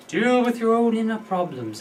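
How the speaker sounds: laughing, parodying the phrase "Deal with your own inner problems"; mock-earnest guru line; mock self-help voice. Shown as a demonstration. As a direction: send up the slogan with a chuckle. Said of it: "I know that sounds like a little crap".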